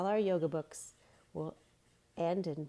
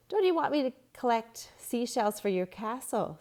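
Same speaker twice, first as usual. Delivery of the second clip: higher, louder and wheedling; coaxing kid; 6 semitones higher, 5 dB louder than usual. A narrator's reading. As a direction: win them over sweetly. Boy coaxing friends.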